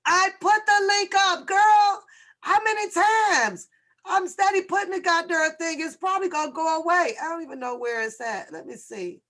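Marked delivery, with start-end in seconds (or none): 0.1-7.1 put-on high, loud girlish retort as the viewer; mock the viewer fussing about the link, pitched up; imitating a viewer. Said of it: "She said".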